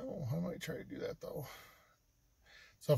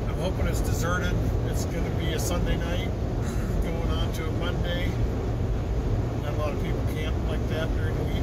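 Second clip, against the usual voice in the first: lightly held put-on voice; 3 semitones higher, 5 dB louder than usual. Vlogger signing off to viewers from Wyoming, lightly in a put-on voice. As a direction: keep the odd voice going, lightly. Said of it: "I don't know why I'm talking like this".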